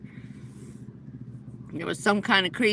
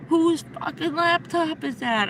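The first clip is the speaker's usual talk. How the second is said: higher, angry retold demand; imitating furious yell; 6 semitones higher than usual. Furious hacker confronting her about the laptop, mock angry. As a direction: snap at her like a maniac. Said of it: "cursing and screaming like a maniac".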